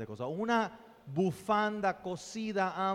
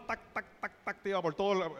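imitated heel clicks; 2 semitones higher, faster than usual. Speaker recalls an elegant teacher's walk, imitated heel clicks. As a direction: click out the footsteps with the voice. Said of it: "y por su paso".

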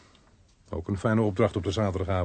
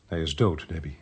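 low, subdued delivery; sober, falling away on the name; gently breaking bad news; 5 semitones lower, 5 dB quieter than usual.

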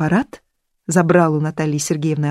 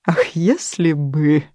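slow bitter sigh; much slower than usual. Acted.

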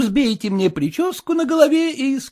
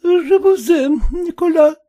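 French love words; 5 semitones higher, 4 dB louder than usual. Acted. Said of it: "скажи французское любовное слово".

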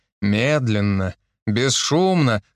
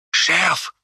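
hoarse wheeze; 4 semitones higher than usual. Acted. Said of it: "просипел Евген".

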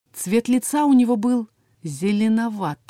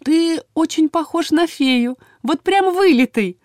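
affectionate; 8 semitones higher, 3 dB louder, slower than usual. A narrator's reading. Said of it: "ласково улыбнулась парню Эля".

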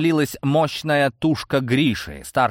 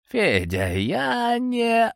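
exhaled; 11 semitones higher, much slower than usual. Acted. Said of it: "выдохнул".

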